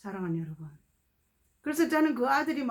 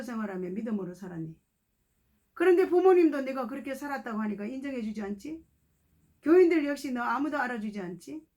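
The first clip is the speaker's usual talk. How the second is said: preacher delivering a loving prophecy; tender prophetic word; 4 semitones higher than usual. Retold or imitated. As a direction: reassure him as God's voice. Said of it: "제 입에서요".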